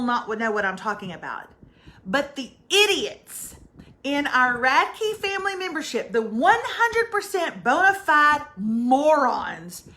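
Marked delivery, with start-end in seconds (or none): 2.1-9.8 loving insult. Real, not acted. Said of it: "which I say with all love".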